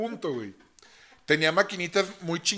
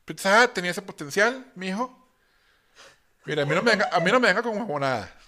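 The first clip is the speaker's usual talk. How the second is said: mock Colombian accent; 3 semitones higher than usual. Joking with his friend in a light mock Colombian accent. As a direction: sound like a Colombian boss. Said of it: "Hablas como colombiano".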